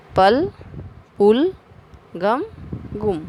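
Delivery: "पल" against "पुल" and "गम" against "गुम", a versus u, each word said alone; contrasting vowel sounds. Shown as a demonstration. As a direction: teach the a and u difference in "पल", "पुल", "गम", "गुम". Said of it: "बोलिए और अंतर समझिए".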